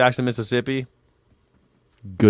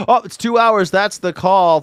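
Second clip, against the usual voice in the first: high-pitched gasping exclamation; sudden surprise; 10 semitones higher, 4 dB louder than usual. Real, not acted. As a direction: pipe up as if startled by the clock. Gasps on noticing time is up.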